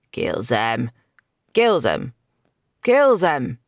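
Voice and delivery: a war cry rising to a roar; building battle cry. A narrator's reading. Knight laughing, slaughtering crowd.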